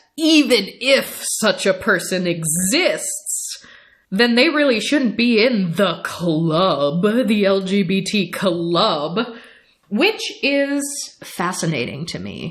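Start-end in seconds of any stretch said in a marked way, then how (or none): 0.2-9.2 forceful, insistent, emphatic delivery with hard-stressed words. The speaker quoting a man whose claims she calls inaccurate: emphatic retold quote.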